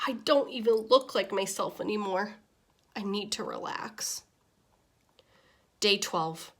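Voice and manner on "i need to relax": soft whisper to himself; a jittery fish soothing himself in a whisper. Acted. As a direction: murmur it under your breath to calm down. Nervous fish calms himself.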